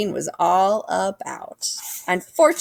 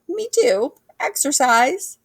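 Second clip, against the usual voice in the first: much higher squeak, slow on exercise; little squeaky voice; 8 semitones higher, slower than usual. A narrator's reading. Hector squeaking to his friend, high squeaky voice. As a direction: squeak like a scared kid. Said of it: "in a little squeaky voice".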